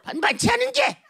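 high-pitched soap-opera confrontation; melodrama mother. Acted. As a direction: confront her like an outraged mother in a trashy drama. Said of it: "무슨 막장 드라마의 한 장면처럼".

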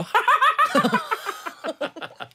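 high, giddy cackle; frivolous laugh. Shown as a demonstration. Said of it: "경박스러운 거 내가 세상에 제일 잘할 거야". (경박한 웃음)

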